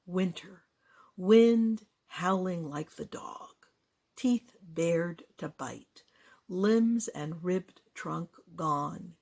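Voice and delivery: slow, deliberate poetry reading; poem recitation. Acted. Poet sharing a winter poem, slow recitation. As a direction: weigh each image, drawing out the words.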